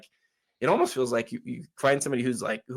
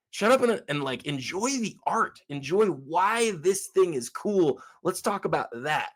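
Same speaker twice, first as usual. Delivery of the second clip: acted-out plea, pitch jumping high and swooping; exasperated appeal, stretching the key words; exasperated mock retort; 6 semitones higher than usual. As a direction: play someone fed up, urging others to appreciate. Imagined retort to value-obsessed collectors.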